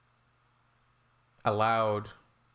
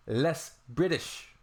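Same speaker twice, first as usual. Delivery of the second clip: drawn-out, higher-pitched disbelief; incredulous; 5 semitones higher, much slower than usual. Real, not acted. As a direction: stretch it out slowly in disbelief. Incredulous at the request.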